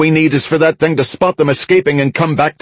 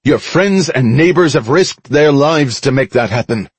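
higher-pitched, emphatic public appeal; firm crowd address; 7 semitones higher than usual. A narrator's reading. Mickey persuades the crowd to release the ships, firm address. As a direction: press the crowd firmly to give way.

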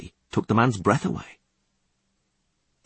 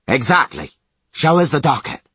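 loud, high sneer; mocking commandant; 5 semitones higher, 5 dB louder than usual. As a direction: sneer it down at him.

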